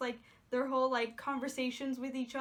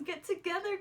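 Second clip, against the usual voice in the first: higher, eager plea to "get together"; eager urging; 6 semitones higher than usual. Retold or imitated. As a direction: push them on, like a fan at the screen. Urging the couple to kiss.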